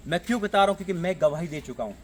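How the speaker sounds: emphatic sermon in surging phrases; insistent preacher's cadence; fervent preaching. Real, not acted. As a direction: drive each example home, then settle into a firm promise. Preaches on giving.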